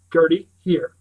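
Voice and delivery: anxious call for the dog. Acted. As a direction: call her across the house. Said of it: "I call".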